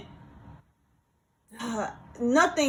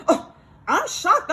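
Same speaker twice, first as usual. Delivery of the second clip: slow, higher, drawn-out imitation of a shocked coworker; mock shock; 6 semitones higher, 4 dB louder, slower than usual. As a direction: mimic her exaggerated disbelief. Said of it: "seemed so flabbergasted and just so confused".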